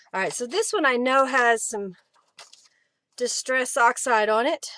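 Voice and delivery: breathless after rushing around; out of breath. Real, not acted. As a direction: talk while still catching breath. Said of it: "Whew, I'm out of breath".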